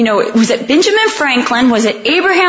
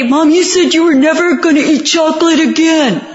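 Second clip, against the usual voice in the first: put-on kid accusing; 3 semitones higher than usual. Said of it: "your kids say".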